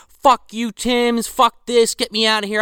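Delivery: high, loud mock yell at the agent; angry outburst. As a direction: freak out at being tricked. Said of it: "He's like".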